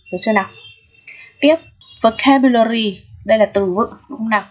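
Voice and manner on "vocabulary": "vocabulary" slowly, its A as a short e; "vocabulary" drawn out with an e sound for A; pronunciation demo. Shown as a demonstration. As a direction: model "vocabulary" slowly for learners, A said as e. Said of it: "Chữ A đây cũng được đọc là âm E".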